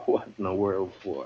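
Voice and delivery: a laugh breaking into the question; amused laugh at the boy. Acted. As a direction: ask it through a chuckle.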